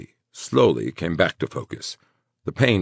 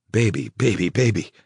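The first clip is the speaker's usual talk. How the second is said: tender murmur; 5 semitones higher than usual. A narrator's reading. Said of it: "he murmured".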